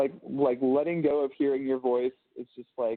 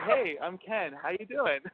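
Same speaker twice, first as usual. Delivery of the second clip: higher-pitched, casual greeting; being himself; 5 semitones higher, slower than usual. Shown as a demonstration. Man showing how he greets people as himself, natural and higher. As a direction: introduce yourself as your relaxed, higher-voiced self. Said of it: "when I'm being myself".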